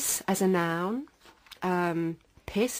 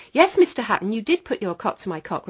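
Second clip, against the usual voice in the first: put-on child insisting; 3 semitones higher, 7 dB louder than usual. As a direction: stand firm like a small child. Child insists against denial.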